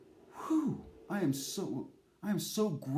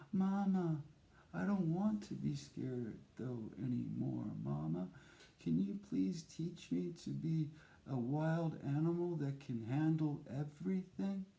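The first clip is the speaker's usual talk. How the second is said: put-on pleading child; 7 dB quieter than usual.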